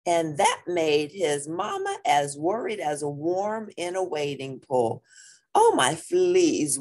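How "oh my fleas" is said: mock wail. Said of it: "wailed Mama Junebug".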